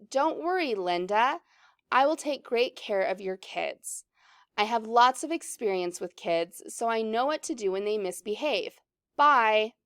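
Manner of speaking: lightly voiced script character, at an unhurried pace; lightly acted reading. Corey reassures Linda about her kids, lightly acted, unhurried.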